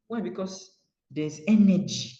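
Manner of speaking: normal talking voice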